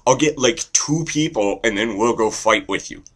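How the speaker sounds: high, loud little-brother excitement; overjoyed Canada. Acted. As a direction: burst out thrilled, high and loud. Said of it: "And they're like".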